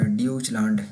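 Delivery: ड्यूचलैंड read by its spelling, "dyooch"; wrong pronunciation. Shown as a demonstration. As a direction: misread ड्यूचलैंड with "yoo" in place of "oy". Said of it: "यूँ नहीं सुना कि". (ड्यूचलैंड का ग़लत उच्चारण, "यू" ध्वनि के साथ)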